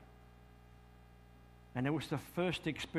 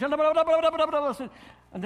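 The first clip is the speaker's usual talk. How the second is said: mock amazement; 12 semitones higher, 9 dB louder than usual. Real, not acted. Describing preacher's laughter.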